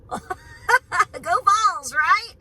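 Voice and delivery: root for the Vols out loud; team cheer. Real, not acted. A fan cheering on her team, loud and high.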